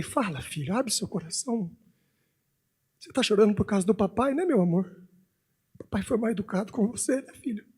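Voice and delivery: gentle, softened fatherly apology; pai arrependido, carinhoso. Retold or imitated. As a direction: coax a crying child softly. Pai arrependido consola filho chorando. (pedido de desculpas manso de pai)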